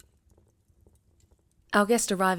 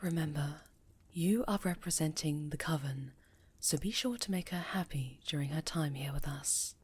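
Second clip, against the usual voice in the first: soft, secretive whisper to the pupil; a quiet aside so the guest won't hear; hushed warning; 6 dB quieter than usual. Acted. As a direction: lean in and whisper it, softer. Enchantress's private warning to pupil.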